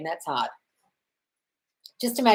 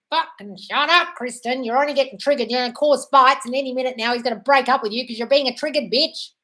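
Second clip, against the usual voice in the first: 1 stern self-talk; 4 semitones higher, 4 dB louder than usual. Shown as a demonstration. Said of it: "Mute yourself and think".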